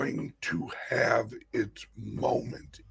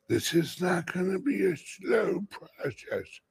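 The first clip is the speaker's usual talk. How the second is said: excited; 6 semitones higher than usual. Real, not acted. Hyping the coming price jump.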